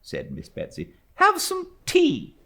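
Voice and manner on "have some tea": slow, loud, higher command; brusque old aunt. A narrator's reading. Stern aunt ordering tea, slow firm command. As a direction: order it like settled fact.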